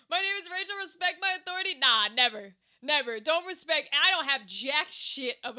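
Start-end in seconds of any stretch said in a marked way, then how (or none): 0.1-1.7 a lightly put-on commanding teacher, higher; lightly hammed-up stern authority voice; mock bossy. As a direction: puff up with fake authority. Mock bossy self-introduction.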